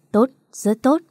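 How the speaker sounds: a hint of a proud old man; pleased grandfather. A narrator's reading. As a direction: praise her like a beaming grandpa. Grandfather praising.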